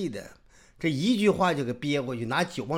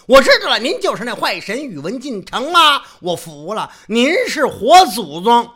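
loud, high sarcastic giving in; mock surrender; 9 semitones higher, 12 dB louder than usual. Yuwen Jin loudly gives in with mock deference. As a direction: concede with exaggerated sarcasm.

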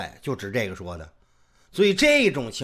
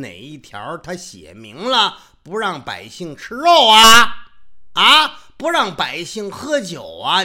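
loud, high, slow complaining; indignant protest; 5 semitones higher, 9 dB louder, slower than usual. Acted. Yuwen Jin loudly protests he only ate and drank. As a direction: protest the charge with mock innocence.

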